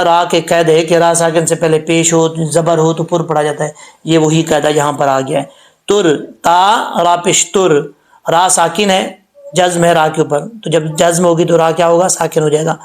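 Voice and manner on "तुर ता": तुर said slowly with a full heavy र. Shown as a demonstration. Teacher showing heavy ra to students. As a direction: stretch तुर thick and full-mouthed. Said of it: "पुर, यानी मोटा पढ़ा जाएगा".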